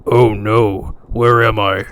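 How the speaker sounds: loud, mock damsel in distress; girl voice. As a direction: cry out like a lost heroine. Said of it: "girl voice right now".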